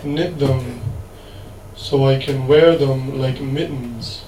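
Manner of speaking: slow, measured poem reading with long pauses; poetry recital. Acted. Poet reads winning poem to audience, slow measured recital. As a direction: recite line by line, letting each phrase hang.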